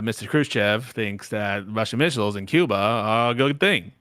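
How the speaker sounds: a hint of a Boston accent in a speech cadence; lightly voiced Kennedy; mild JFK speech voice; JFK impression. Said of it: "Right, ready?".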